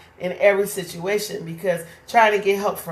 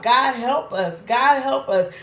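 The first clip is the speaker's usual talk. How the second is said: crying out; 5 semitones higher than usual. Retold or imitated. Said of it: "We cry out".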